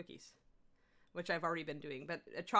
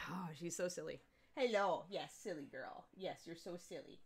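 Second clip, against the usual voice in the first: much softer cooing to the dog; 2 semitones lower, 6 dB quieter than usual. Real, not acted. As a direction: coo tenderly at the silly dog.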